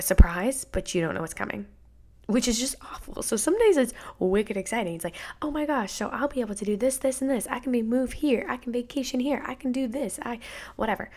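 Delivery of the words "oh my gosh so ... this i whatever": excited gush. Retold or imitated. Imagining twenties excitement, mock thoughts.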